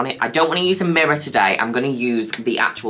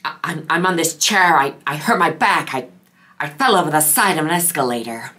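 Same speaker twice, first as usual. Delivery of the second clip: Jennifer Coolidge impression; 3 semitones higher than usual. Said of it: "she just kind of randomly comes out with".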